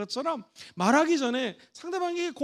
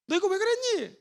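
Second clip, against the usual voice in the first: accusing question; 7 semitones higher than usual. Shown as a demonstration. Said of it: "폐쇄형 질문을 한다".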